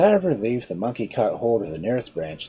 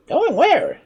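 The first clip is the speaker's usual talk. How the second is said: higher, lighter voice for the sly monkey; clever monkey; 9 dB louder than usual. Acted. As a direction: play the monkey, a touch mocking. Monkey asks.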